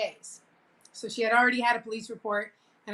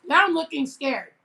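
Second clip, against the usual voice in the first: looking scared; 4 semitones higher, 6 dB louder than usual. Shown as a demonstration. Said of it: "that was good".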